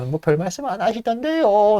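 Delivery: put-on high, slow, meek old-man voice; lightly voiced elderly butler; old servant. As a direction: shrug it off like a timid old servant. Old servant answers master.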